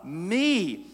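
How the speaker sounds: slow, proud, beaming declaration of Adam; boastful and cheerful. Acted. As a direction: savor each word like a proud new husband. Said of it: "boastfully and cheerfully says".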